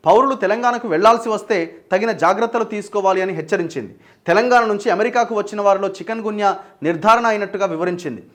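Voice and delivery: steady, formal news-reader delivery. Acted. Anchor reading viewers a US travel alert, news read. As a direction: read out the bulletin in measured phrases. Reads a news report aloud.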